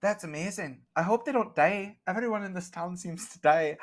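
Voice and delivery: chirpy Scottish baker chatting; Scottish accent. Acted. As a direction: keep the Scottish shopkeeper going, high and chatty.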